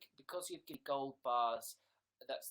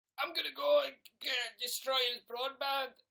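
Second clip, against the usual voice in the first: put-on Scottish accent, much higher, louder; 11 semitones higher, 8 dB louder than usual. Livestreamer reacting to viewer gifts, in a put-on scottish accent. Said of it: "I don't know why I'm Scottish there".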